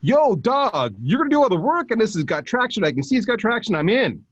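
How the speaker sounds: high, slangy influencer saying yes; casual bro voice. Retold or imitated. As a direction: play the hyped influencer. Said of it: "they're gonna go".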